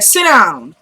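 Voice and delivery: brisk command with falling pitch; retold order. Woman orders restless man to sit, brisk retold command. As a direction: tell him to sit, quickly. First order, then repeated more firmly.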